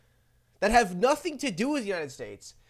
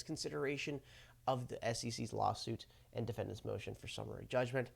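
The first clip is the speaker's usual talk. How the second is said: hungover; 6 semitones lower than usual. Real, not acted. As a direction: read it like you're badly hungover. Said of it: "I'm so hungover right now".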